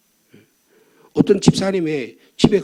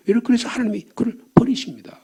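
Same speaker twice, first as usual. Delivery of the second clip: whispered, fading to nothing; grave whisper of God's rejection; solemn whisper; 2 semitones higher, 5 dB quieter than usual. Real, not acted. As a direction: hush the judgment, almost no voice.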